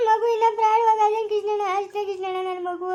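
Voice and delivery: tearful plea through sobs; crying out to Krishnanna over the baby. Acted. Mother grieving over harmed baby. (ಅಳುತ್ತಾ ಕೇಳುವುದು)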